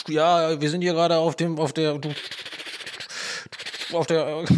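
lightly voiced live reporter, halting; mock helicopter reporter. Podcaster plays live link to helicopter, mock reporter. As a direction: play at reporting from a helicopter, searching for words. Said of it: "wir schalten mal hoch zum Faden, äh, Hubschrauber".

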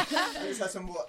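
coughing up water. Real, not acted. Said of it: "a bit of water went down the wrong way there".

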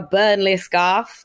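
slowed, hammed-up Burnley accent; bad Burnley accent. Shown as a demonstration. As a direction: have a poor go at a Burnley accent. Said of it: "the accent is not gonna get better".

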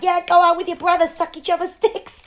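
high-pitched, hammed-up scolding wife; mock-furious wife's send-off; angry movie wife. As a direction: yell the insult up high. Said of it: "She's like".

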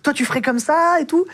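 high mock yell of an angry girlfriend; angry girlfriend shouting. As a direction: imitate her shouting down the phone. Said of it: "la meuf qui commence à crier".

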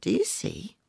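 secretive, high whisper; confiding whisper. Acted. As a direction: lean in and whisper it. Old woman confiding secret.

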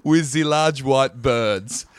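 slow, deliberate mock French reading; mock French accent. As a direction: draw it out like a comic Frenchman. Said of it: "written down the accent here".

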